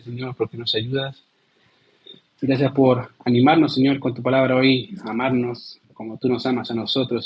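steady earnest prayer voice; closing prayer. Acted. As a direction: pray for the congregation, earnest.

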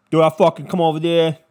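put-on Philly accent. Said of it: "I can't do a Philly".

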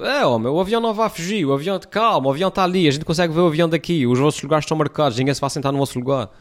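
high, exasperated telling-off; calm them down, fed up; exasperated plea. Retold or imitated. Retold scolding at the gate.

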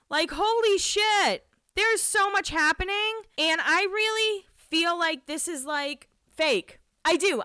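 high, slow, stunned exclaiming; incredulous, high-pitched and stretched; overwhelmed disbelief. Real, not acted. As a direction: draw it out high, floored by the drama. Overwhelmed rant about the scandal.

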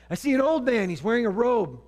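high, loud, hammed-up seer's announcement; hammed-up witch. The witch announces the spirit to Saul, hammed-up and loud. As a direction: play up the witch's vision for a laugh. Witch's vision retold, exaggerated.

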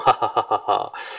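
low, slow villain chuckle; villain laugh. Acted. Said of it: "le rire du méchant".

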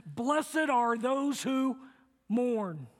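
slow, weighty reading of scripture; slow solemn verse; scripture quote. Retold or imitated. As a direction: let each word of the verse land. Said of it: "He said".

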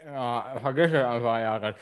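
talking around a cork in mouth. Real, not acted. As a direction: speak with a cork between the teeth. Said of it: "der ist jetzt so voll gesauert, der Korken".

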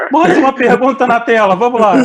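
loud host call-out; host announcing. Real, not acted. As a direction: call up the next question loudly. Host calls up next question.

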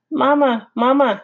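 high, tiny peeping voice; gosling in egg. Acted. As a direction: call like a chick inside an egg. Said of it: "said the egg".

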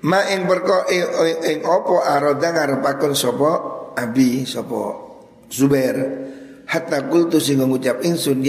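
chanted Arabic with Javanese gloss, slowing at the end; kitab recitation. Acted. Preacher glossing the kitab word by word, chanting. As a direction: recite the book in a pesantren chant.

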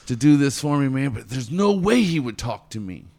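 acting out a jittery would-be mentee; mock scared mentee. Imitating a scared mentee working up to asking Taz. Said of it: "You're so scared".

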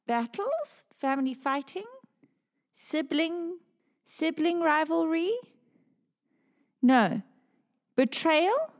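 psychic trance voice. Acted.

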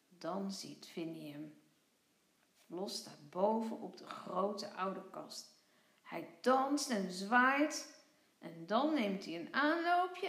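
calm storybook reading voice; children's story narration. A narrator's reading. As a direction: read it gently to young kids.

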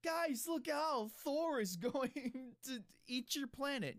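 high, slow mock warning in Thor's accent. Thor warns the planets, slow high hammed-up Thor accent. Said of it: "he says it in, in his accent".

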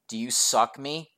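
"me" lifted into a question. Retold or imitated. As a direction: imitate his odd plea, "me" rising. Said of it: "I wish you could hear how he says it".

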